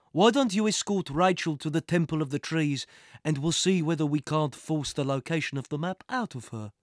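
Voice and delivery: a hint of cool menace; villain instructing a henchman; lightly voiced scheming villain. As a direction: give the order with veiled threat.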